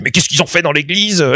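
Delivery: high-pitched imitation of a baffled audience; high, incredulous quoted outcry; mock disbelief. Retelling audience's shocked reaction.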